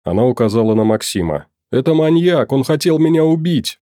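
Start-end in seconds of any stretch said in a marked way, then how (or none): 1.7-3.8 agitated accusation. A narrator's reading. Caretaker accusing man to police.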